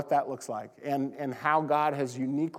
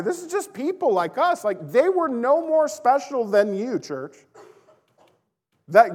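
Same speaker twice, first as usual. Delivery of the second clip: fervent preaching; 5 semitones higher, 5 dB louder than usual. Real, not acted. Preacher exhorting the church.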